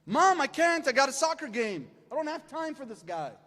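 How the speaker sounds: put-on whiny teen to mom. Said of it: "teen complaining to mom".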